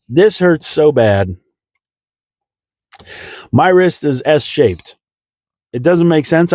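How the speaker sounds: building from pained moan to high bewildered protest, played for laughs; mock pained complaint. Patient as all the pain sets in, mock distressed whining. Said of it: "it was awful".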